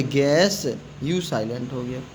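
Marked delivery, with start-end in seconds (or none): 0.0-0.6 गैस with hard g straight into 'e'; silent u. Shown as a demonstration. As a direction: say गैस with no w glide. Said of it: "इसको क्या पढ़ेंगे?". (यू silent, गैस)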